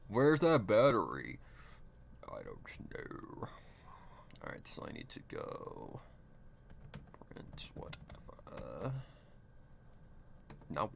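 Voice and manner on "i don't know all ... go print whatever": whispering. Real, not acted. Whispers during search.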